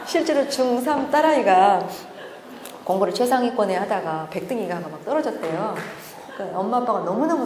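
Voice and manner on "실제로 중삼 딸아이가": usual speaking voice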